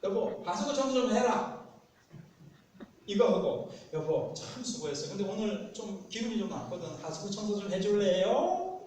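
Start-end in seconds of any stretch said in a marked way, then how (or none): 0.0-1.6 loud, high, bossy order; brusque demand in a raised voice; blunt command. Acted. Blunt order contrasted with coaxing request. 3.9-8.8 wheedling request, lifted high at the end; butter them up, then ask sweetly; put-on aegyo with a rising final question; cutesy coaxing. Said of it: "이렇게 좀 아향을 떨면서".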